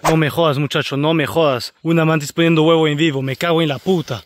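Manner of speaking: excited, emphatic swearing in amazement; can't believe your luck, swear in wonder; real thrilled disbelief; amazed disbelief. Real, not acted. Stunned by mantis laying eggs live.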